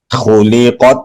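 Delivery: "خلقت" with the sound shut off on the final t; closed final ta. Shown as a demonstration. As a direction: stop the voice dead on the t of "خلقت". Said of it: "تا پہ آواز بند کریں گے".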